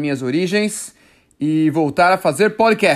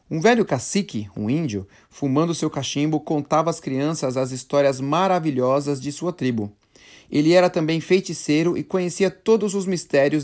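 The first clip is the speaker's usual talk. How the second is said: story narration. Acted. Host reading a Brazilian legend to listeners, storytelling voice. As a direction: read the old legend to learners.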